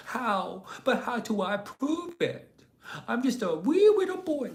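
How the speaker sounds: mock the chatter as a wee boy; mocking little boy. Streamer mocking a chatter's reply in a whiny little-boy voice. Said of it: "S J says".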